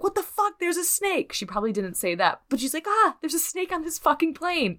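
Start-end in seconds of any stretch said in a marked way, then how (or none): 0.0-1.3 much higher, a shocked shriek at the snake; startled shriek. Retold or imitated. Wife finds the snake in the other room, shrieking in shock. 2.9-4.8 much higher, hammed-up action-movie yell; joke movie quote. A deliberately wrong take on the wife's reaction, hammed up.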